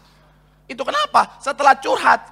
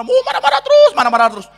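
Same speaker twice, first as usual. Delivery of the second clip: whiny complaint; faster than usual. Acted. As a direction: whine it like a fed-up wife. Wife whines about her husband.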